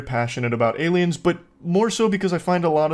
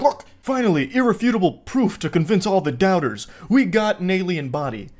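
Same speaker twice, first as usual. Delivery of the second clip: higher, lightly hammed-up excitement; mock-earnest proclamation, pitched up; mock triumphant believer; 4 semitones higher than usual. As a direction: imitate a gullible believer announcing proof. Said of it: "They're like".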